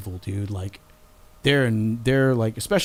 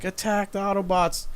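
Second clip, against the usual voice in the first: high robotic villain shout; 8 semitones higher than usual. Retold or imitated. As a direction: bark it like a Decepticon. Voicing Decepticon character.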